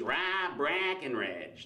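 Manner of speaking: name drawn out in a broad Wisconsin accent; slow Wisconsin honk on the flat vowels. Shown as a demonstration. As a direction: Wisconsin accent like honking geese. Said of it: "sounds like a flock of geese".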